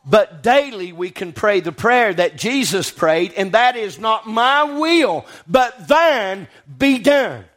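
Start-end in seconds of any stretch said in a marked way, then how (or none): 4.0-7.5 slow prayerful quote. Acted. Quoting Jesus' prayer slowly.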